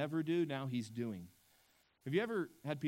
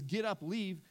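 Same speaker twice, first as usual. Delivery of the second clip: "Get up, leave" pushed out higher with force; emphatic command; 5 semitones higher than usual. Retold or imitated. Preacher voicing Pharaoh's emphatic dismissal with force. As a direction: bark it as an order. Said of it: "Pharaoh says".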